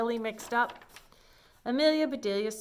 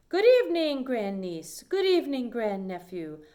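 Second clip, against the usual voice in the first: put-on grand old aunt; 3 semitones higher, 6 dB louder than usual. Great Aunt Myra arrives.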